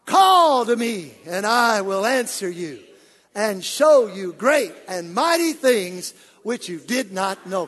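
slow, loud unison recital; congregational reading. Shown as a demonstration. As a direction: read it out together. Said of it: "Let's read it together".

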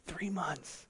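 breathy echo, barely voiced; dramatic whisper. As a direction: whisper "Three months" back to let it sink in. Echoing the phrase for effect.

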